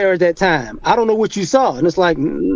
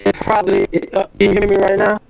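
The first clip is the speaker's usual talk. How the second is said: robot voice from bad connection; faster than usual. Real, not acted. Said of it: "it sounds like a robot".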